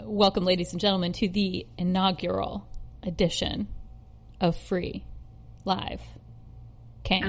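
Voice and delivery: smooth host read; smooth radio intro; easy announcer delivery; podcast voice. Shown as a demonstration. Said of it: "I love your podcast voice".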